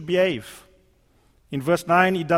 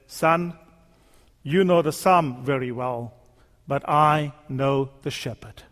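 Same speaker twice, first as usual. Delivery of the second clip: lightly voiced old man, gentle and knowing; wise old man; 5 semitones lower than usual. Old man gently answers the young entertainer, lightly voiced.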